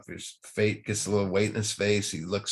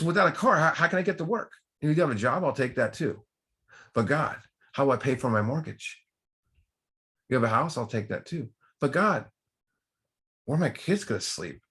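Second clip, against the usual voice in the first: much higher, rising retold plea; pleading panic; 6 semitones higher than usual. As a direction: beg God in mock desperation. Desperate man pleading with God.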